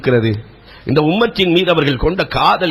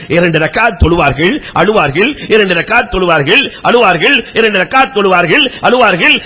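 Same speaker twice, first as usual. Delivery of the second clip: building refrain; 2 semitones higher than usual. Acted. Repeated refrain rising in fervour.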